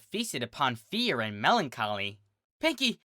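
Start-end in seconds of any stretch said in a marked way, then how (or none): 2.6-3.0 desperate filly. A narrator's reading. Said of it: "she said".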